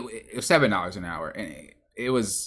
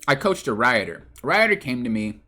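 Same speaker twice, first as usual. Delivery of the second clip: stuttering. Real, not acted. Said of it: "why I'm, like, stuttering".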